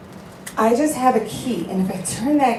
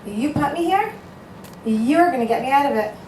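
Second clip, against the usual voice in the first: higher, half-joking demand; mock-defiant, laying down terms; a playful challenge thrown at heaven; defiant ultimatum to God; 5 semitones higher than usual. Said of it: "that I told Hashem".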